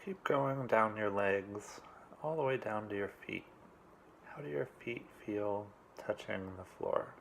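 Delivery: calm, unhurried meditation coach; measured meditation instructions in short, spaced phrases; guided meditation. Real, not acted. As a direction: guide them gently through it, leaving long pauses. Leads a meditation.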